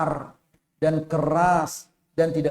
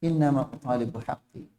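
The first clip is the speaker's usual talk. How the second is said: soft, unbothered reply; calmly casual; 2 semitones lower, 4 dB quieter than usual. Acted. Bedouin calmly answering the angry companions, unbothered and soft. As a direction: say it easily, no heat. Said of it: "dengan santainya mengatakan".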